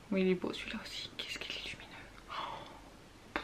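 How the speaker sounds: soft breathy whisper of admiration; whispered awe. Real, not acted. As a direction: whisper to yourself, marveling. Admiring swatch, whispered close.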